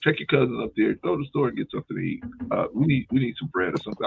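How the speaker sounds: high, quick, sugary voice sending her off; mock-sweet ask to run to the store; sweet errand request. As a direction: play the nice grandpa, light and quick.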